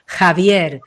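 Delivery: Javier said slowly and proudly; empowered name. Shown as a demonstration. Voice coach showing the empowered way to say Javier, slow. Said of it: "desde el empoderamiento".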